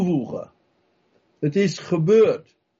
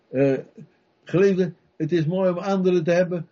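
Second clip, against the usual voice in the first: usual speaking voice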